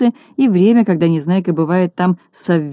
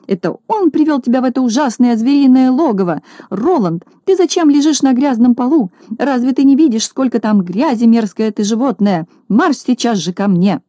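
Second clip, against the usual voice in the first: angry tirade; 5 semitones higher than usual. Acted. Lady scolding her dog for the dirt, high shrill tirade.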